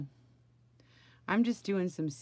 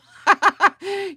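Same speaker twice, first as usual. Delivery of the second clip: a high squealing laugh; loud high laugh; 13 dB louder than usual. Real, not acted. Cracking up at her joke for the viewers.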